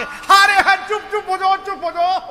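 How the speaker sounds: high, loud mocking laughter-voice; laughing Ravana. Ravana laughs loudly to silence Hanuman, mocking. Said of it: "ठहाके".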